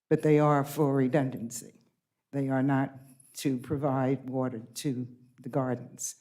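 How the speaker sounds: real shaky voice, holding steady; shaking voice. Real, not acted. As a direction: voice trembling but firm. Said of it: "my voice is shaking, but I'm angry".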